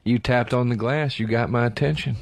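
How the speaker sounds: 怪しげな呪術師の声まねを軽く; imitating caller's spooky line. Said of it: "the scariest part is when he went".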